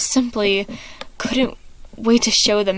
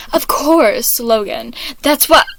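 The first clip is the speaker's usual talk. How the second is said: trailing off; 3 semitones higher, 5 dB louder, slower than usual. Acted. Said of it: "Logan's voice trailed off".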